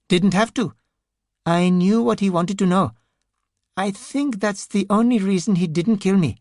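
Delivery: high, timid, halting voice; a frightened man missing his friends; nervous grieving man. Acted. Ranajay voice again.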